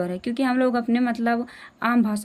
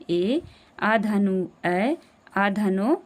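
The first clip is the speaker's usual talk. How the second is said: drawn-out vowel; much slower than usual. Shown as a demonstration. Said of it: "दो मात्राओं का समय लग रहा है".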